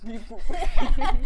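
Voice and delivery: loud laughing robot beep. Pretend. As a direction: blurt the beeps through laughter. Echoes robot joke laughing.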